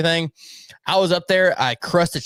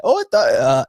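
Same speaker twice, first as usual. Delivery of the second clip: put-on botched Mexican accent; 4 dB louder than usual. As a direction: try a Mexican accent and miss. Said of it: "that's Indian".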